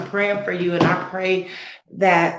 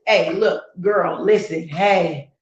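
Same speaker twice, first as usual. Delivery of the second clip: pep talk to yourself; 5 dB louder than usual. Acted. Self-talk pep talk, acted.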